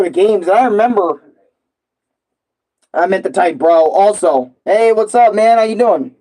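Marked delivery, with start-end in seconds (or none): none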